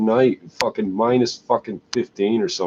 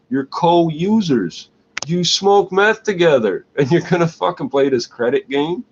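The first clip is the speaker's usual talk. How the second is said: exasperated rant; 6 semitones higher than usual. Real, not acted. Exasperated scolding of meth users.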